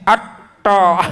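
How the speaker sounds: ATTO slow with a loose drawn-out TO; wrong to. Shown as a demonstration. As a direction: overdo the mistaken ATTO. ("Atto" yang keliru)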